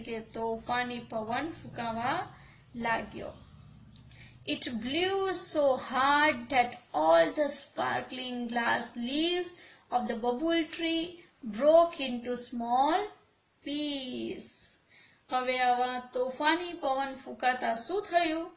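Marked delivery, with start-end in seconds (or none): 4.5-14.5 very slow, deliberate classroom reading; slow story read-aloud. A narrator's reading. Teacher reading a story to pupils before translating, slow read-aloud. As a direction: read it out word by word, unhurried.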